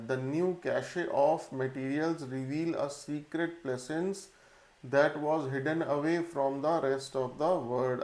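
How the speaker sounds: reading a test sentence slowly and evenly for a class; slow dictation reading. Shown as a demonstration. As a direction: dictate it word by word so students can follow.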